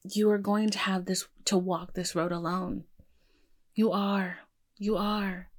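quiet, choked-up pep talk to yourself in the mirror; emotional self-talk. Real, not acted. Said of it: "why am I getting emotional?".

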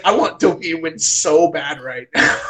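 root for him with everything; desperate fan. Retold or imitated. Fan telling friend how badly he wanted Doki to win, loud and pleading.

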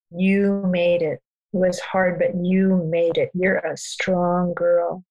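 slow, sure, unhurried encouragement; confident and steady. Retold or imitated. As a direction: tell the baby she made it, slowly and with certainty. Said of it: "my tone of voice to something more confident".

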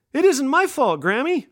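put-on high, insistent little-girl protest; child protesting. Granddaughter protesting to her grandma, high and insistent. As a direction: plead innocence to grandma.

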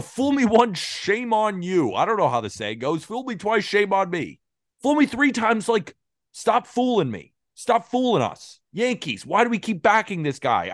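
high-pitched fed-up emphasis; exasperated saying. Real, not acted. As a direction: spell it out in disbelief. Exasperated saying about repeat cheater.

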